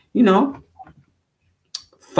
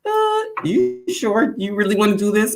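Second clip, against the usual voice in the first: doubtful retold voice; 11 semitones higher than usual. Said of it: "So it was like".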